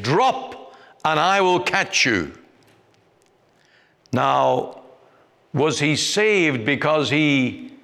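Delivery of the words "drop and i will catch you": calling out. Retold or imitated. Strong man calls up to boy.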